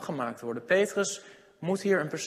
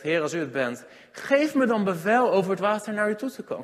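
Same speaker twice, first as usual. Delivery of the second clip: Peter's plea, raised higher and louder; urgent plea; 4 semitones higher, 4 dB louder than usual. Acted. Preacher voicing Peter to his listeners, an urgent raised plea. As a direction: call out to the Lord across the water.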